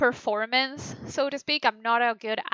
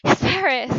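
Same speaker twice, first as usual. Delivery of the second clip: other reading; 3 semitones higher, 6 dB louder than usual. Shown as a demonstration. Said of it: "a different acting".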